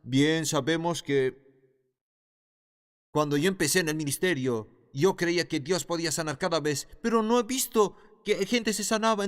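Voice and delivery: a lightly voiced doubting believer, rising at the end; a hint of a doubting churchgoer making excuses; mock doubter. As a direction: imitate a skeptical churchgoer, only a little. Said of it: "escuchamos a las personas".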